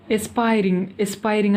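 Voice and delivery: ఎస్పైరింగ్ said as "es-PIE-ring"; pronunciation demo. Shown as a demonstration. Teacher showing learners how to say it, ఎస్పైరింగ్ as "es-PIE-ring". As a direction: model ఎస్పైరింగ్ clearly, opening on "es" then "pie-ring". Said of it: "అని పలకాలన్నమాట".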